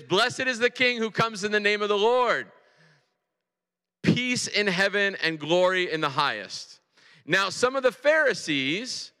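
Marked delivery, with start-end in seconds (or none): 0.0-6.8 high, ringing crowd acclamation; joyful loud praise. Acted. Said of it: "began joyfully to praise God in loud voices".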